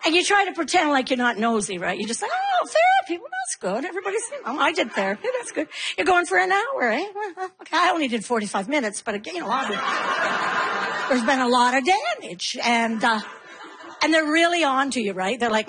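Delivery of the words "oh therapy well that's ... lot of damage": fake casual mom. Pretend not nosy mom.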